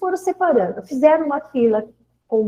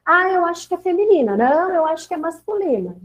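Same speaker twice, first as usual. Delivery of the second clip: lightly voiced children, higher pitch; imitating pupils; 5 semitones higher, faster than usual. Pupils guessing which words to form, lightly imitated children. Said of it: "Eu pedi pras crianças".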